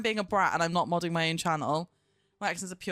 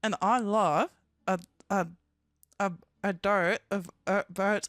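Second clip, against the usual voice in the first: attempted Australian. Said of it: "Australian man's".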